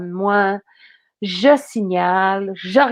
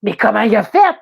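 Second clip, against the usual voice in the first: baffled; 4 dB louder than usual. Retold or imitated. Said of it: "Là, je fais".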